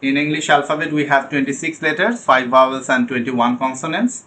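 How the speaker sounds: very slow, careful English read; slow reading aloud. Shown as a demonstration. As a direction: read it out for learners slowly. Reads English text slowly.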